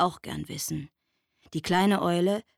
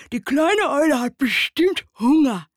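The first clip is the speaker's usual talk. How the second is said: higher, louder squirrel voice; squirrel calling out; 8 semitones higher, 9 dB louder than usual. A narrator's reading. Squirrel hopping up to the owl, high eager call. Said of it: "Eichhörnchen ... und rief".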